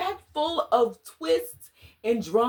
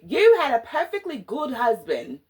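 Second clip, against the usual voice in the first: corrected take, mock British accent, a bit louder; "You had a perfectly good husband" in a playful mock British accent; 3 semitones higher, 6 dB louder than usual. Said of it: "Let me do my accent".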